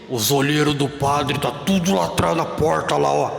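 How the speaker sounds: husband whispering that the priest's men watch; lightly voiced warning husband. Husband warns about priest's watchers.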